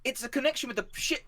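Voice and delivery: high, halting, stuttering voice; distressed high voice breaking into glitches; glitching ship mind. Acted. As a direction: stutter through a malfunction. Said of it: "and she's like".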